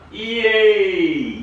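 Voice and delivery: high little cheer; delighted cheer. Real, not acted. Celebrating the lit decoration, a high happy yay. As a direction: cheer as the lights work. Lights come on.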